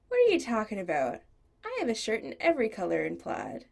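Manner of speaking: brisk outraged denial of the plaid insult; indignant protest. Acted. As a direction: fire back fast in disbelief. Chris protests Cassidy's jab.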